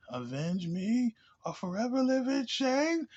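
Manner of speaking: high, slow, hammed-up vengeful father; mock grave father. Reviewer quoting the dying father's oath, slow mock-solemn high voice. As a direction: intone it like an over-solemn ghost king, slowly. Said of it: "his father was like".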